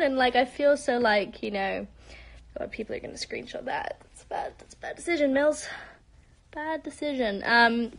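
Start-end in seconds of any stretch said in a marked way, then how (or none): 2.6-4.9 muttered aside. Real, not acted. Mutters to self embarrassed.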